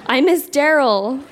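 slow, giggling through the line; can't keep a straight face reading it; laughing while reading. Real, not acted. Reading teen diary aloud, laughing.

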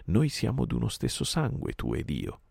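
a high ringing call up to the sky; vulture call. Acted. Mowgli calls up to Kill the vulture, high ringing call. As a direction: call out to the bird circling above. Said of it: "l'udì lanciare il richiamo degli avvoltoi".

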